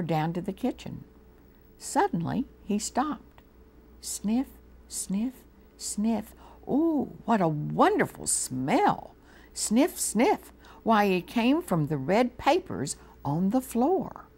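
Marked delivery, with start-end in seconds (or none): 4.0-6.3 sniffing mouse. A narrator's reading. 6.7-10.5 delighted mouse. A narrator's reading.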